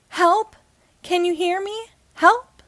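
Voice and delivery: loud, high calls for help; wailed cry. A narrator's reading. Tiny ant wailing to the giant man for help. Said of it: "Red wailed out an old song by a band".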